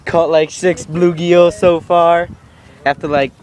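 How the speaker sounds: loud call to the camera over the wind. Real, not acted. Shouting to camera outdoors.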